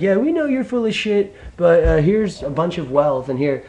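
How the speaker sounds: mock British subject. Brits handing wealth to the royals, mock put-on voice. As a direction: hand over the wealth in a silly sing-song. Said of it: "you're like".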